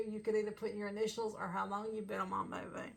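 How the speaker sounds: unvoiced aside whisper. Real, not acted. Fan sharing a merch dream, whispered. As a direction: whisper it like a secret wish.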